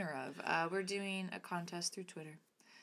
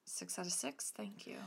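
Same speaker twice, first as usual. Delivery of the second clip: whispered boast; 3 semitones higher, 8 dB quieter than usual. Pretend. Cheeky reply to score.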